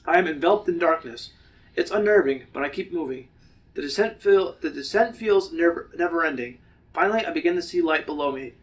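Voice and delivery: measured first-person story reading; steady, deliberate narrator; story narration. A narrator's reading. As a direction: read it aloud as a suspenseful tale. Reads the story aloud.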